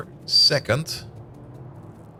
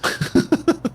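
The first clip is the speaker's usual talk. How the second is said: breathy laugh; 13 semitones higher than usual. Real, not acted. Laughs at surprising recipe.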